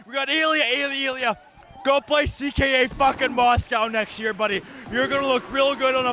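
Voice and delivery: angry rant. Acted. Fan ranting after playoff loss.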